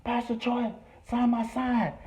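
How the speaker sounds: high, pleading fan voice; eager fan begging. Retold or imitated. The speaker pestering a rapper for an autograph, high pleading. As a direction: beg him up high for a signature. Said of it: "He is like".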